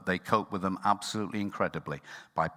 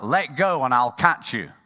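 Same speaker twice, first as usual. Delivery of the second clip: voice of God; 5 semitones higher, 8 dB louder than usual. Retold or imitated. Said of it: "the voice came back".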